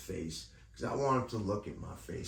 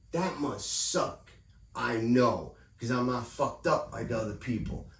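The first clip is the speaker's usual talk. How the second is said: retold heated rant; 4 semitones higher than usual. Retold arguing with racist supervisor.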